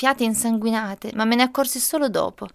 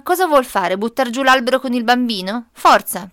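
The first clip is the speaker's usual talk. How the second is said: defiant challenge; 5 dB louder than usual. Acted. Mother challenges the digger man.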